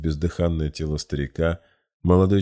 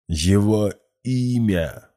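higher, slow, loud thundering demand; rumbling roar; 5 semitones higher, 4 dB louder, much slower than usual. A narrator's reading. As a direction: roar the name out. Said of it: "пророкотал молодой человек".

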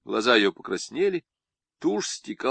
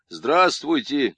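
«Здравствуйте» louder and drawn out slowly; a bit louder; 4 semitones higher, 6 dB louder, much slower than usual. A narrator's reading. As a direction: push «Здравствуйте» out, slow and loud. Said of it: "чуть громче произнёс Цуриков".

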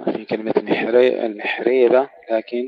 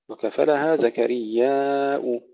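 Quran recitation; 2 semitones higher, much slower than usual. Acted. Verse recited slowly.

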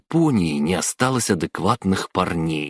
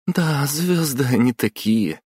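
wry scoff; 9 semitones higher than usual. A narrator's reading. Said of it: "хмыкнула Накатоми".

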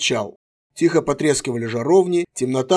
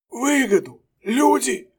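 scornful; 10 semitones higher, slower than usual. A narrator's reading. Prisoner scoffs.

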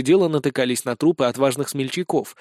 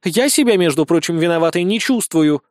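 raised, huffy self-defence; indignant; 3 semitones higher, 4 dB louder than usual. Acted. Blonde denies any guilt, indignant. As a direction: protest your innocence, offended. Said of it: "возмутилась она".

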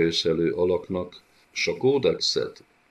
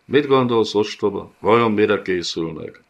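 higher, louder scornful taunt; contemptuous monster; 4 semitones higher, 6 dB louder than usual. Acted. The Griff taunts the cowering gocsomul with contempt. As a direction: sneer at the foolish servant.

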